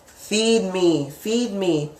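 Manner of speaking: hissed, drawn-out yes, then hungry pleading; lightly voiced devil feeding on fear; greedy subconscious. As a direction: play a hungry little devil, relishing it. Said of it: "your subconscious over here is now like".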